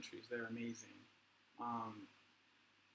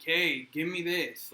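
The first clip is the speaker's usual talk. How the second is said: entitled demand; 4 semitones higher, 6 dB louder, slower than usual. Retold or imitated. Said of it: "demand service and".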